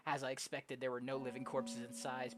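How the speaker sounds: slightly subdued reading; story narration. Acted. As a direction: return to quiet, even storytelling. Reads game story aloud.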